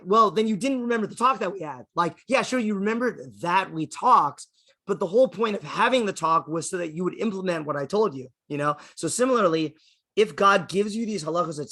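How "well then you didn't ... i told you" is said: higher, emphatic parental lecture; lightly acted telling-off; mock scolding mom. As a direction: drive the point home like an exasperated mother. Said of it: "gets all mad".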